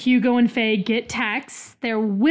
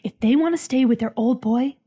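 announcer voice; faster than usual. Pretend. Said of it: "I'm just doing an announcer voice".

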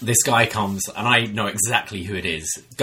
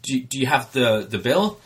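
feigning innocence; 3 semitones higher than usual. Retold or imitated. Dine-and-dasher playing innocent to bartender, mock surprised. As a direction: play dumb, eyebrows up.

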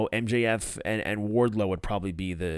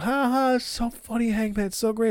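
fake laugh; 11 semitones higher than usual. The speaker fake laughing at joke.

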